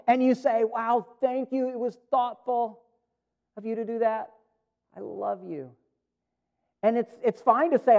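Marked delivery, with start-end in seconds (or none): 0.6-5.7 higher, softening into a quiet close; touched thanks, settling into tenderness; moved gratitude. Acted. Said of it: "it was emotional".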